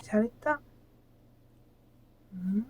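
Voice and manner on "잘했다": squeaky praising a dog. Real, not acted. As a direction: coo praise to a small dog. Praising dog during brushing.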